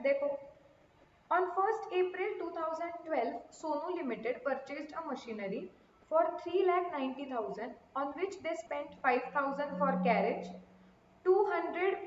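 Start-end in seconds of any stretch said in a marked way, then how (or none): 1.3-12.0 slow, soft dictation of a problem; reading a question. Acted. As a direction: read the sum out slowly for class. Reads out the question. (धीमी आवाज़ में प्रश्न पढ़ना)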